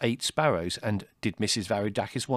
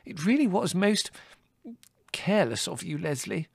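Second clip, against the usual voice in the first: high motherly chiding; reproachful mother; 9 semitones higher than usual. A narrator's reading. Mother scolding her son over the sparrows, reproachful.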